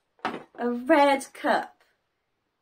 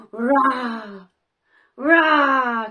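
put-on a mild playful roar for kids; lion roar; 4 semitones lower, 5 dB louder than usual. Teacher showing children how a lion roars, lightly. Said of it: "They go".

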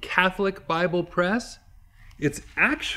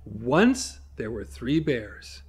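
storybook telling; 4 semitones lower, slower than usual. Shown as a demonstration. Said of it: "but I can shorten it".

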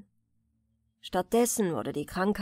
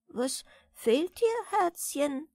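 slow, higher, caring question; sympathetic question; 7 semitones higher, slower than usual. A narrator's reading. Old lady asking the sad girl what is wrong, caring. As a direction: ask tenderly, full of concern. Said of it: "fragte teilnehmend das alte Fräulein".

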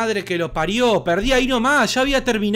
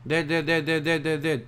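imitating game voice; 6 semitones lower, 6 dB quieter than usual.

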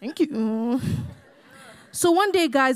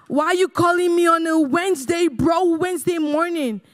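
surprised; 5 semitones higher than usual. Retold or imitated. Surprised at weekday call.

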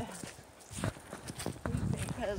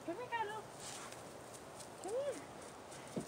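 calling the pet; 10 semitones higher, 8 dB quieter, slower than usual. Real, not acted. Calling the dog.

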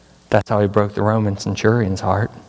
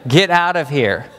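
nurses' order; 5 semitones higher than usual. Retold or imitated. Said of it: "the nurses were like".

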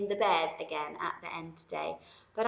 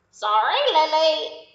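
loud, higher friendly duck; a bright apologetic duck; 8 semitones higher, 12 dB louder than usual. Acted. The duck apologises to Lily, loud and higher.

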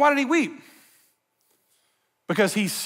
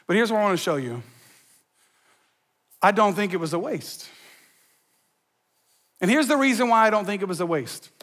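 ordinary delivery

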